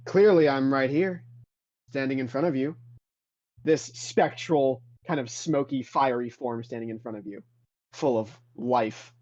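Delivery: a stately ghostly master lecturing; lofty Jedi spirit. Acted. Spectral Jedi master lectures Adrian, lofty and scornful. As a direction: pace and talk down to the fool.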